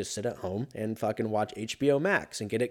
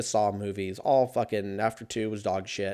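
normal talking voice

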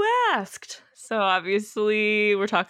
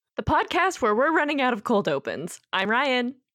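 full-on heavy news anchor delivery; 3 semitones higher than usual. A podcast host opens the episode in a heavy newscaster voice. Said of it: "yeah that was real heavy newscaster voice".

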